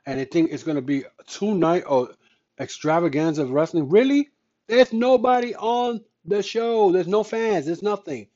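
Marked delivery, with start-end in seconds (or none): 3.9-8.3 disbelieving, pitch jumps up on really; incredulous rant. Real, not acted. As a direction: scoff in disbelief at the empty show. Ranting about empty WrestleMania.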